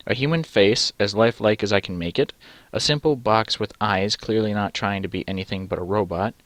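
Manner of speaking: normal talking voice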